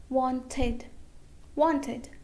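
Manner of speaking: "wanted" in two syllables, won-ted; "wanted" modelled twice with a full -ted ending; pronounced E. Shown as a demonstration. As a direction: sound the E before the D in "wanted". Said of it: "we'll pronounce E".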